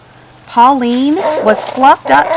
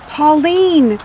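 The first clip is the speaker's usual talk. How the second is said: a lightly raised, fretting farm lady; Mrs Pennyworth voice; 5 semitones higher than usual. Acted. Farmer tells her hen about the eggs, lightly raised worried voice. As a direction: voice her higher and a bit worried.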